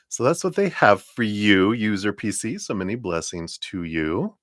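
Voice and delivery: talking while crunching a cough drop; words round a crunched lozenge. Real, not acted. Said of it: "Sorry, I'm crunching my cough drop".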